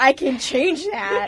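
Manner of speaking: slow, laughing reply; slow amused line with a laugh. Acted. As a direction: chuckle through the threat. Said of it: "joking threat with laugh".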